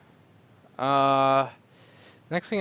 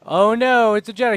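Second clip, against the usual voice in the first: higher, louder mock alarm; mock alarmed droid; 8 semitones higher, 11 dB louder than usual. Droid who spots a Jedi, mock alarmed. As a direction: play a startled droid spotting a Jedi. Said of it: "It's not like".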